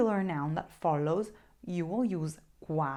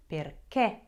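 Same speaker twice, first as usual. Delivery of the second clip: "Perché" with the accent landing firmly on the final é; stress on last syllable. Shown as a demonstration. Teacher modelling correct pronunciation for learners, "Perché" stressed on the final é. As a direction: punch the end of "Perché", per-KÉ. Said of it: "pronounce it correctly".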